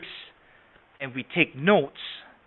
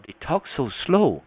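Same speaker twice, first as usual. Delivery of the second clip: slow talker. Shown as a demonstration. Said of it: "talks real slow like this".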